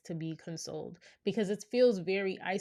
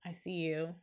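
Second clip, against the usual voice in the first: gentle validation; 5 dB quieter than usual. Shown as a demonstration. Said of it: "I might have said".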